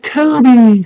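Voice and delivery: high loud call of a name; Sarah calls out to the baby. Retold or imitated. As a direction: call it across the room. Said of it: "She's like".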